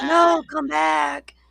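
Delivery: yelling high and frantic, slow; desperate slow cry to come back; frantic high shout. Retold or imitated. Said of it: "He's like".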